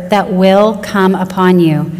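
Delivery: slow repeat with "will" stressed. Shown as a demonstration. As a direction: stretch "will" so it stands out. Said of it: "don't miss that word".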